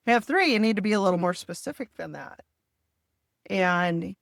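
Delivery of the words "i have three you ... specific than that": higher, louder tongue-in-cheek comeback, quick; mock-tart reply to a vague question; retold sassy retort. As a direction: toss the cop a cheeky correction.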